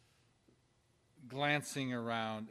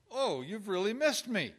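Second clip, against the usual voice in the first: warm reassuring; 6 semitones higher, 8 dB louder than usual. Shown as a demonstration. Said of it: "look at it this way".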